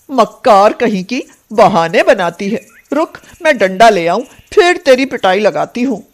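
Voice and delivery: cruel aunt's threatening scold; angry. Acted. Aunt threatens niece with a beating, angrily. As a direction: scold with jumpy, rising temper. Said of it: "Kunti को बहुत गुस्सा आया".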